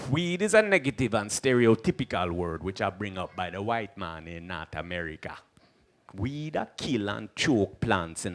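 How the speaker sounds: a hint of a calm Rasta elder teaching; lightly voiced Rasta sage. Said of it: "He'd be like".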